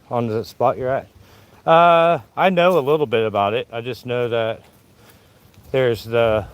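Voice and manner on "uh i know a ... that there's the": winded, breathing hard between words; puffing after climbing the hill. Real, not acted. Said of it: "Sorry, let me catch my breath".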